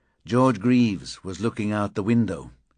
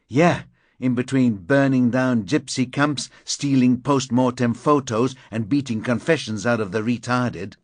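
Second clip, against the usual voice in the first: bitter angry rant; 4 semitones higher, 5 dB louder than usual. Acted.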